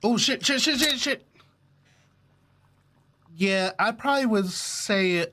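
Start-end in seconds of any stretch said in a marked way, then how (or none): 0.0-1.3 rising stunned string of curses; real shock at the reveal; shocked cursing. Real, not acted. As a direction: caught off guard, swear in disbelief. Reacts to game twist.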